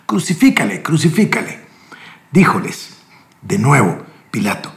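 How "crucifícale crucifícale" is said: high, urgent crowd cry; crowd shouting. Acted. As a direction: cry it out as the mob demanding death. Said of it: "gritaron diciendo".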